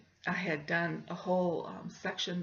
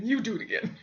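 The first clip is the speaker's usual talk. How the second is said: snapped retort; 3 semitones higher, 3 dB louder, faster than usual. Retold or imitated. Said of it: "I know I snapped".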